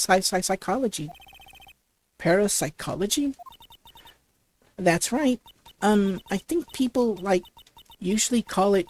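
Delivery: put-on bubbly valley girl, lots of "like"; ditzy valley girl. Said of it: "like a valley girl would talk".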